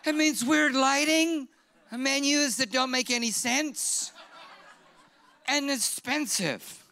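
high, loud, slow laughing delivery. Real, not acted. Pastor mocking fancy restaurants, laughing. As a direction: laugh through the words.

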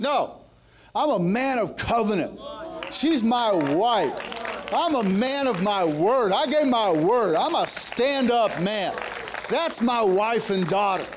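slow, emphatic vow of loyalty; firm declaration. Retold or imitated. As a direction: stand your ground, word by word. Retold husband refusing to leave wife.

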